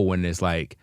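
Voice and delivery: usual speaking voice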